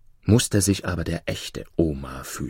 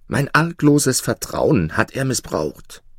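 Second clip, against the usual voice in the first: indignant cry; 6 semitones higher, slower than usual. Acted. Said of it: "schrie Omar".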